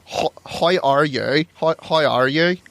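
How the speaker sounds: slow, drawn-out Irish presenter, lightly voiced; Terry Wogan. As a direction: attempt a slow Irish broadcaster impression. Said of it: "can you do your best Terry Wogan".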